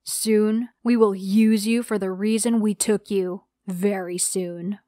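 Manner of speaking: a hint of a monster, threatening before he shuts the door; monstrous tone. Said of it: "he said in a monstrous tone".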